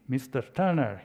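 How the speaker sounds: Mister Turner with a faint mock Spanish accent; half-hearted try at a Spanish accent; attempted Spanish accent. Argentine ambassador addressing the British negotiator, attempted Spanish accent. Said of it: "I can't do a Spanish accent".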